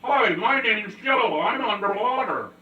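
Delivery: slow, gargled underwater speech; talking underwater. Shown as a demonstration. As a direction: talk as if under water. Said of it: "you ever tried to talk underwater?".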